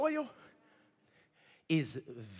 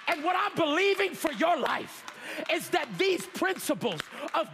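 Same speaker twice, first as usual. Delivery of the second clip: fervent preaching; 5 semitones higher than usual. Real, not acted. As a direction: preach it with conviction, punching key words. Preaches with force.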